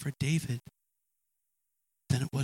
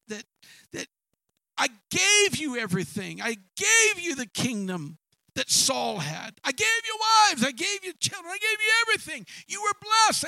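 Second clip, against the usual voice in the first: booming indignant shout, much higher and louder; the Lord's rebuke; 12 semitones higher, 4 dB louder than usual. Acted. Preacher voicing God rebuking David, loud and indignant. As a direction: thunder out every gift given.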